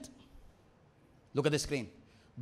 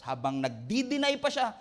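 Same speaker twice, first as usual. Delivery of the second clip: ordinary talk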